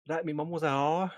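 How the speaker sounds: put-on British accent. Player in character confessing to the hostess, British accent. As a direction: deliver it cheekily with a British lilt. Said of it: "Not great at those".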